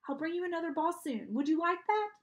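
high, coaxing promise; consoling dog talk. A narrator's reading. Sad girl promising dog a ball.

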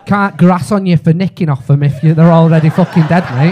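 shouted, building to a yell on dead; loud punchline. Real, not acted. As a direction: bellow it at the room.

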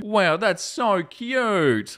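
slow, high, melting wow; drawn-out awe. Real, not acted. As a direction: gush over something adorable. Reacting to cute pet comic.

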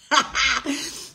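short amused laugh; real laugh. Real, not acted. Laughing at being called pretty dramatic, amused laugh. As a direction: laugh at yourself briefly.

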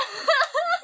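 high squealing giggle. Real, not acted. Vlogger recalling the ride, squealing giggle. Laughing at the memory.

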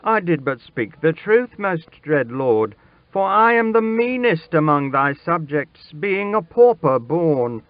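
put-on high, urgent boy's plea; imploring, pitched high and building; desperate pleading. A narrator's reading. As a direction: beg for your life. Boy begs king for his life.

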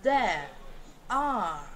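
"There" and "are" with the vowel stretched and no r; lengthened vowel in "There, are", r dropped; long vowel. Shown as a demonstration. Teacher showing the British lengthened vowel before the r. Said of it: "A gente alonga o som da vogal".

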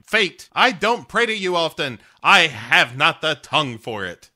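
a lightly hammed-up solemn warrior's prayer; Conan the Barbarian. Grumpy Cat praying to fate in a mild mock Conan voice. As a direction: play it as a half-mocking barbarian praying to fate. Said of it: "of course, Conan the Barbarian".

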